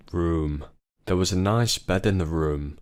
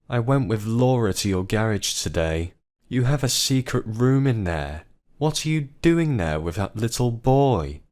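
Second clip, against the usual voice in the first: screaming; 5 semitones higher than usual. Acted. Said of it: "Samantha screamed".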